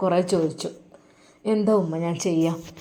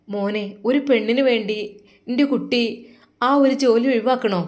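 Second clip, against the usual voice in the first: pleading mother; 4 semitones higher than usual. Acted.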